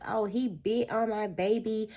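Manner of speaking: hammed-up outraged mother defending her child; a mother cutting up at the principal's office, mock outrage; indignant mama. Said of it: "she cut up so bad in that office".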